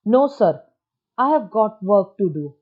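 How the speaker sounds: loud, slow, angry refusal. Shown as a demonstration. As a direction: snap it out and refuse firmly. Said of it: "चतुर्भुज ने गुस्से से कहा".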